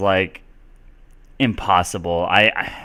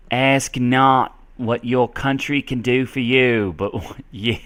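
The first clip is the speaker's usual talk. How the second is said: shaky try at an oratorical Boston accent; failed Boston accent; 3 semitones higher than usual. Shown as a demonstration. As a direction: attempt a Boston speech and falter. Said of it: "I can't do Boston".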